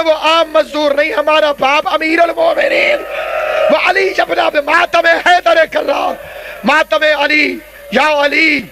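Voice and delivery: fervent majlis climax, rising to shouts; climactic mourning cry. Real, not acted. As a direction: cry out the holy name as a lament chant. Preacher cries out the climax.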